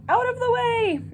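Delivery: high, loud Santa yell. Acted. Father Christmas yelling as he flies out, loud and high. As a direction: shout him out of the way. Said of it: "Father Christmas yelled".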